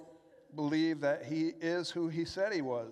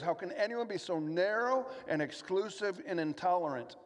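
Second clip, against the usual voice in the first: mock objector; 4 semitones higher than usual. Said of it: "But the world's objection is".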